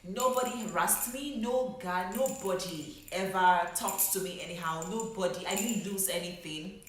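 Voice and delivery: fighting back real emotion, pushing the words out; emotional outburst. Real, not acted. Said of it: "I can't get emotional right now".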